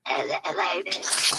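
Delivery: raspy whisper; breathy, hoarse, barely voiced; after breathing tube. Shown as a demonstration. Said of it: "like I'm talking from the smoker's room".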